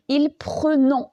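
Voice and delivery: PRENONS said slowly with a schwa in PRE, as if spelt with one N; slow demonstration of PRENONS with an unopened first E; wrong pronunciation. Shown as a demonstration. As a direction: drag out "prenons" with a closed "preu" first syllable. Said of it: "Si on met une seule consonne".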